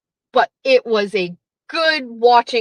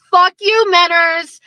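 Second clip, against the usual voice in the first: loud, raised fuck you; shouted curse; 6 semitones higher, 5 dB louder than usual. Real, not acted. Shouting fuck you at Menners on his show, loud. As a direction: yell it at him.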